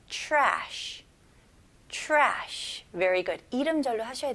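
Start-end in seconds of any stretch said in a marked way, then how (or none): 0.1-2.9 trash starting with a ch-like sound. Shown as a demonstration. 선생님이 trash를 ch 소리로 시작하는 시범. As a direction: say trash as if it began with ch. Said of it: "C H 발음으로 시작해서".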